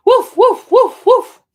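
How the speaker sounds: high, loud playful woof; dog bark. Pretend. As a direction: yip like a little puppy. Barking for the book dog.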